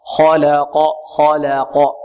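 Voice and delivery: خلق with a thin 'la' between heavy kh and q; corrected خلق, dark-light-dark; correct light laam. Shown as a demonstration. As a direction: keep the l of خلق clear and light. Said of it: "خطأ".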